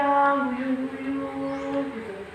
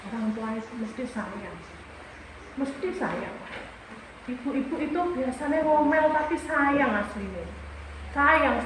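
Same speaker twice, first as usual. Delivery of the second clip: reassuring; 2 semitones lower, 4 dB quieter than usual. Real, not acted. Reassuring the pupil about parents.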